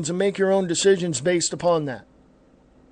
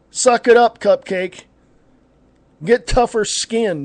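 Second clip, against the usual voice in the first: taunting jab; 3 semitones higher, 3 dB louder than usual. Real, not acted. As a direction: sneer it at the whiners like a dare. Taunting offended listeners on air.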